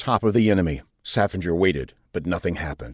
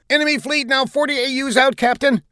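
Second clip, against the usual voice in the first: very high, urgent warning; =call it out in high alarm; frenzied. A narrator's reading. Bridge officer warning the captain of the fleet, frenzied. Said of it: "a frenzied voice calling out".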